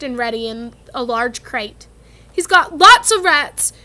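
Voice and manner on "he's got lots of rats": muffled voice. A narrator's reading. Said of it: "said Hagrid in a muffled voice".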